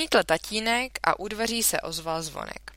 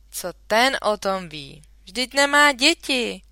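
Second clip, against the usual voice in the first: louder, higher irritated outburst; a touch of a father's temper; getting worked up; 5 semitones higher, 8 dB louder than usual. A narrator's reading. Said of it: "rozčiloval se tatínek". (podrážděně, lehce)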